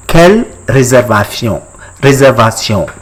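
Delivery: French "réservation" slipping towards Spanish; careful French with a slight Spanish accent. Shown as a demonstration. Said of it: "I'm getting Spanish accent".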